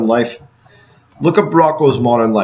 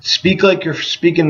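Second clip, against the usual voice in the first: slow and firm; slower than usual. Shown as a demonstration. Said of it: "So speak with authority".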